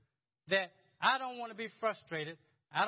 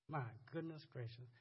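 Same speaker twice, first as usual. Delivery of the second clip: awed hush; 6 semitones lower, 9 dB quieter than usual. Real, not acted. Marvelling at the verse.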